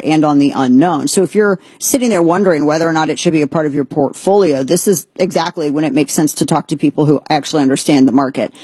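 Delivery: smooth, steady sponsor pitch; ad read. Acted. Host pitching the gold sponsor to listeners, smooth ad read. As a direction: sell it calmly like a trusted advisor.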